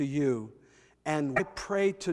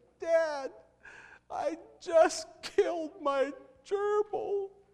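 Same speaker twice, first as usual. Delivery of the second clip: mock tearful, very high sobbing child's voice; 12 semitones higher than usual. Retelling a phone call from his child, imitating someone sobbing. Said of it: "sobbing voice saying".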